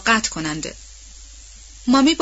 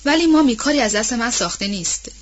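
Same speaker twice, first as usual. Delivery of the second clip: Melly answering; 3 semitones higher than usual. Acted. Young lady refusing the nanny's plea, a startled call then gentle. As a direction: begin with a sharp call, then soften.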